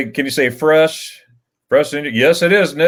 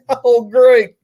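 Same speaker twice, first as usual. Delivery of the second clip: mock sarcastic "great"; 11 semitones higher, 6 dB louder than usual. Sarcastic reaction to no spaghetti ice.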